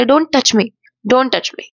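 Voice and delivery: a touch of protesting shout; mild mock yell. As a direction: act out an indignant yell without full volume. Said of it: "अनामिका ओरडते आणि म्हणते".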